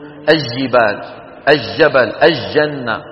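الجبال، الجبل، الجنة with L swallowed into a doubled J; common Levantine mistake. Shown as a demonstration. Teacher mimics Levantine commoners' error, lam merged into the jim. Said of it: "هذه يكثر فيها الخطأ".

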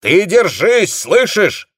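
high, loud urging shout. A narrator's reading. Dezhnev shouts to his company commander to hold on. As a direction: yell encouragement into the receiver. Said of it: "кричал Дежнев".

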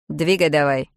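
loud, gruff-free barked order; commanding man. Acted. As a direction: order her to move. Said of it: "скомандовал Лиам". (громкий приказ Лиама)

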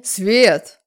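loud male growl of her name; man growls at the girl to stop talking, loud. Acted. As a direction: bark her name to shut her up. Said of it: "рыкнул он".

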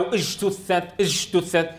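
اجتثت with ج as a loose "zh" fading into "sh"; slack whispered jeem. Shown as a demonstration. Teacher gives the faulty example, slack ج in اجتثت. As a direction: let the ج of اجتثت hiss on unstopped. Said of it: "بيبدأها رخوة ثم تصبح مهموسة".

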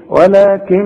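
ولكن with its final ن held nasal for two beats; nasalized ghunna. Shown as a demonstration. Teacher shows the two-beat ghunna on ولكن when stopping. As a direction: hum the ن of ولكن for two counts. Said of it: "اغنها حركتين".

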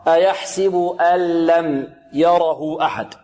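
slow recitation, "أن لم" as a clean allam; merged without nasalization. Shown as a demonstration. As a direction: glide from hamza to a pure l in "أن لم". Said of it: "نقلب النون إلى اللام ولا نغن". (تلاوة "أن لم" بإدغام بغير غنة)

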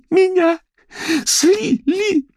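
high, loud sob; hiccuping wail. A narrator's reading. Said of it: "горестно проикала Паулина".

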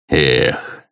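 a long, heavy gnome's sigh; low sigh of an old gnome; deep sigh. Acted. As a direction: breathe it out deep and weary. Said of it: "глубоко вздохнул гном".

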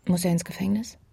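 hushed question at the bedside; whisper. Acted. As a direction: ask under the breath. Quiet bedside talk.

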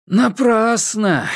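slow, musing word; thoughtful. A narrator's reading. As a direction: let it linger as he ponders. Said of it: "задумчиво произнёс Вилли".

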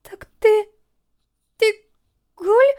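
высокий громкий испуганный вопрос; выкрикнуть догадку в панике; ужас. A narrator's reading. Медсестра в ужасе. (испуганный выкрик)

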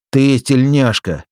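high, slow, half-strength shout; attempted shout. A narrator's reading. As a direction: try to yell but barely manage it. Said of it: "крикнул я, или точнее показалось, что крикнул".

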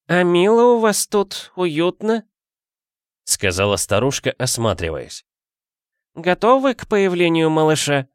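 put-on high, creaky-free old granny voice; old woman voice. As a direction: play the nosy old neighbour. Old woman looks around.

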